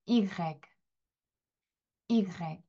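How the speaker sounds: 이그렉 said i-grec; 이그렉 read as a French demo. Shown as a demonstration. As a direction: model the letter as 이그렉. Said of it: "같이 한번 해보겠습니다".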